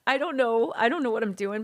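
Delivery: nervous laughing. Retold or imitated. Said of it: "I was thinking".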